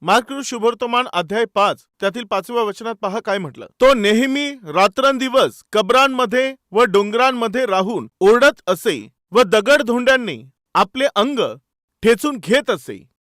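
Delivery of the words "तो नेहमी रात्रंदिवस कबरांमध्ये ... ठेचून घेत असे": emphatic, declaimed Bible verse; scripture reading. Acted. Preacher reading Mark to the congregation, emphatic scripture reading. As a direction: read the verse out forcefully.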